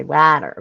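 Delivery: "water" said as "watter", vowel as in "cat"; flat Boston A in "water". Shown as a demonstration. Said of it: "in Boston, they say water".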